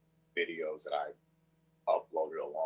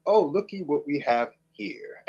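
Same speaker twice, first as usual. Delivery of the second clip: higher, louder robotic computer voice; text-to-speech voice; 7 semitones higher, 5 dB louder than usual. Retold or imitated. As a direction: read it like old text-to-speech. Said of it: "text-to-speech voice".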